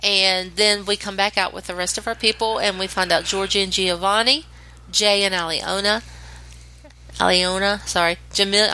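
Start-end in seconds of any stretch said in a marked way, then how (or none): 4.9-8.7 blocked nose on the names; nasal from a stuffy nose. Real, not acted. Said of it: "I'm sounding stuffy".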